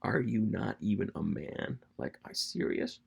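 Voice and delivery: jab at another man in disbelief; understated mocking challenge; smack talk. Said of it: "really smack jabbing".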